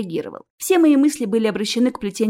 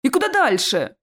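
mildly raised, anxious call; crying out; 3 semitones higher than usual. Acted. Ches out in the corridor, crying out. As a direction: cry out with restraint. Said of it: "вскричал Чес".

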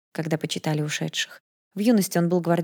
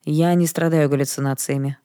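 sullen. Acted. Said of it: "хмуро ответил Даррелл".

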